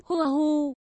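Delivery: quiet hammed-up sob, hu hu; a small acted sob into the hands; muffled mock crying; soft sobbing. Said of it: "bưng mặt khóc nức nở".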